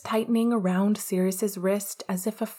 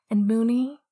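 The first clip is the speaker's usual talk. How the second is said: lifted call into the dark; louder, higher call; 3 semitones higher, 5 dB louder than usual. Acted. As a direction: call his name as he leaves. Calling after departing lover.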